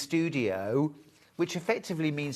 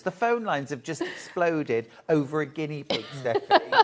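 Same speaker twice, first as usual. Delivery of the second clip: laughing. Real, not acted. Host laughing at phone calls.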